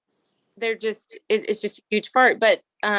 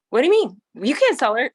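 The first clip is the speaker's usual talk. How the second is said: higher, louder mock outrage; indignant retold outburst; retold child's meltdown; 4 semitones higher, 4 dB louder than usual. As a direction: protest like an upset kid being quoted. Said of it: "had a come apart".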